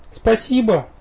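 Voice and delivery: high, tender grateful thanks; softly touched. A narrator's reading. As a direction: thank him, moved. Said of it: "звучал необычайно мягко и растроганно".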